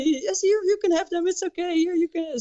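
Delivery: imitating generous drunk. Guy handing out toys, voiced high.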